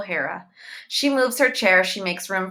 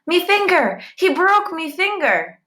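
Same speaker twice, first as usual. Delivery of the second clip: put-on high, loud boyish wail; noisy wail; 11 semitones higher, 5 dB louder than usual. A narrator's reading. Boy crying out over his hurt finger, loud wail. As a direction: howl it like a hurt child. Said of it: "He also makes much noise".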